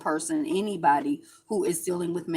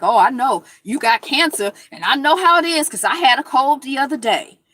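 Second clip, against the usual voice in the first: mock clueless sympathy; 7 semitones higher, 9 dB louder than usual. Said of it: "that's like me being like".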